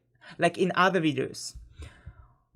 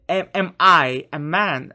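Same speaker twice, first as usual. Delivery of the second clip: "Am, am I a man?" put as a question, hit louder; 7 dB louder than usual. Shown as a demonstration. Teacher showing learners how to ask someone, questioning tone. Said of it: "you just make a questioning tone".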